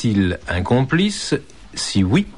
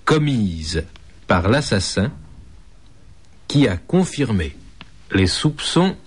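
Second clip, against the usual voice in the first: slow, spaced out. Shown as a demonstration. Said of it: "Je répète".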